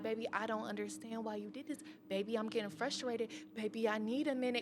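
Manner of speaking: tender, soft, gentle, soothing, coaxing fatherly tone. Speaker imitates how her dad talks to her, imitating his gentle voice. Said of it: "He's always spoken to me gentle".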